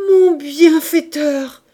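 loud, drawn-out, beside himself; slow, loud, frantic thanks; frantic cry. Acted. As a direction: cry out in overwhelmed gratitude. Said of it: "cria Jondrette, éperdu".

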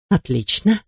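a mild hiss through clenched teeth. A narrator's reading. Thwarted woman at the stuck phone, hissing through teeth. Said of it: "прошипела сквозь зубы мисс Ходж".

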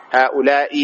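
"هؤلاء" ending in bare -i, ha'ula'i; "هؤلاء" with kasra, no tanwin; single vowel ending. Shown as a demonstration. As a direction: say "هؤلاء" with final i and no n. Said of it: "بحركة واحدة".

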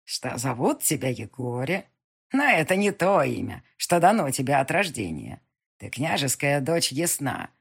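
put-on a wise old witch who sees all. Witch reveals the heroine's name.

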